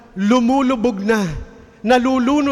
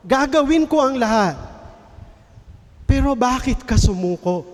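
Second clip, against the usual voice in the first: grieving mother's cry; 3 semitones higher than usual. Retold or imitated. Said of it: "Umiiyak siya, sumisigaw". (ginagaya ang umiiyak na ina, mas mataas ang boses)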